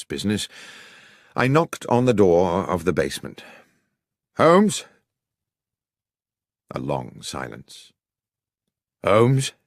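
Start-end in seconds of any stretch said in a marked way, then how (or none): 4.4-4.8 high, louder call through a door; calling through the closed basement door. A narrator's reading. 9.0-9.5 calling again. A narrator's reading.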